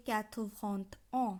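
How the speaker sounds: quatre-vingt-un as separated French syllables; French pronunciation demo. Shown as a demonstration. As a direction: say "quatre-vingt-un" slowly for a learner. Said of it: "একাশি উচ্চারণ হবে".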